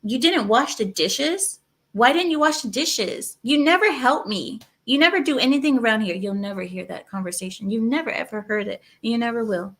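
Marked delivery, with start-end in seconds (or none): 0.0-6.2 mock complaining wife. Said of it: "an Arab woman telling her husband".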